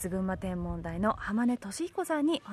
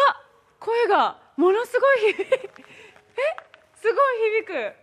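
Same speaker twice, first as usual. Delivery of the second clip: echoing voice; 11 semitones higher, 8 dB louder than usual. Real, not acted.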